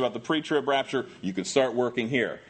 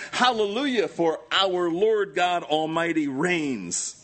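shouted praise; 2 semitones higher, slower than usual. Acted. Preacher reading the thunderous multitude, shouting praise. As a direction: proclaim it grandly, drawing out the end.

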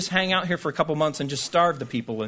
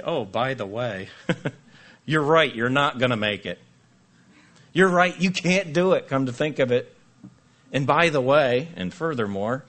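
hammed-up know-it-all discourager, louder; mock discouraging voice; 4 dB louder than usual. Job's comforters telling you that you won't make it, mock discouraging. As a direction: play the gloomy friend piling on. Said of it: "They say".

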